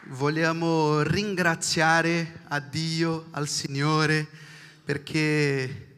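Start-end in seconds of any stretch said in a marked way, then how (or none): none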